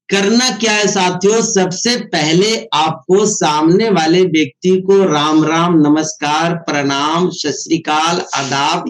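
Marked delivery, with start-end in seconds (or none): 5.0-8.8 respectful greetings. Shown as a demonstration. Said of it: "ये करना है".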